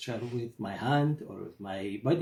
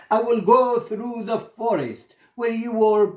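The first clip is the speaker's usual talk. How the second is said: higher, louder eager merchant voice; merchant's question; 6 semitones higher, 4 dB louder than usual. Acted. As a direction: lift the voice as the fond merchant offering help. Merchant asks bird her wish.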